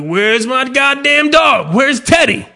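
high, slow sing-song taunt; taunting the dog. Retold or imitated. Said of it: "I just say it".

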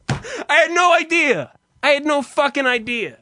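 high, loud burst through laughter; cracked up, pitch leaping as you exclaim; laughing exclamation. Real, not acted. Laughing, exclaiming at his own confusion.

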